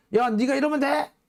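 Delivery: high, squabbling grade-schooler voice. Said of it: "초딩들이 서로 이렇게 멱살 잡고 싸울 때 하는".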